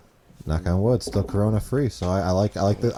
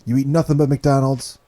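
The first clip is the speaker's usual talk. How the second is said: higher-pitched boastful politician impression; Donald Trump; 5 semitones higher than usual. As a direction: sell it in short, pompous bursts. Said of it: "Do your Donald Trump voice".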